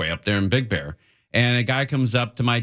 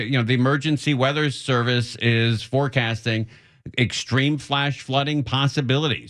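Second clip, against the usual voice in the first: upbeat on-air announcer voice, pitched up; radio host read. Acted. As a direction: sell the station ID like a live DJ.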